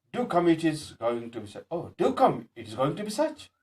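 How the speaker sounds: "do" emphasized in "do come"; stress on DO. Shown as a demonstration. Asking somebody to come immediately, emphatic "do". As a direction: urge them with a stressed "do come". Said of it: "Here, do is much emphasized".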